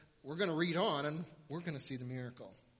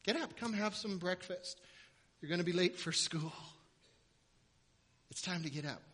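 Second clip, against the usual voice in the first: gentle father; 5 dB louder than usual. Pretend. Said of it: "Jairus every morning said".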